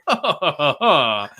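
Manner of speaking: mock laugh imitating the hero; put-on string of ha-has; imitated movie laugh. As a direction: act out his laugh as she screams. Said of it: "like that".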